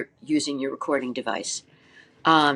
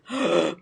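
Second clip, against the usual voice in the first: demo gasp; 2 semitones higher than usual. Shown as a demonstration. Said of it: "I gasping?".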